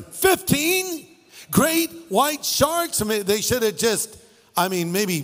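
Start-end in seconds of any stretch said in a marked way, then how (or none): 0.0-3.0 high, slow, incredulous question; disbelief. Real, not acted. Preacher marvelling at fifteen great whites, incredulous. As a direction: stretch it out in disbelief.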